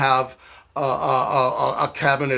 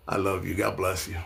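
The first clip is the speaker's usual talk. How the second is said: soft laughing mock love; laughing sarcastically; 7 semitones lower, 6 dB quieter than usual. Real, not acted. Mocking a commenter, laughing softly. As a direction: laugh it off condescendingly.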